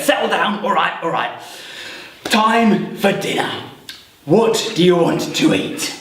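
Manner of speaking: lightly voiced goblin leader; bigger goblin. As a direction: call the goblins to order. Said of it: "slightly bigger goblin got up and he said".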